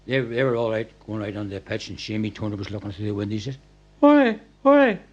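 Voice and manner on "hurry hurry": high, loud mock urgent call of hurry. Teammate at the window hurrying the captain, high urgent call.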